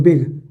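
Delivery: "बिग" as one single syllable. Shown as a demonstration. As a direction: say "बिग" in one unbroken sound. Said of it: "आप एक ही बार में बोल दे रहे हो".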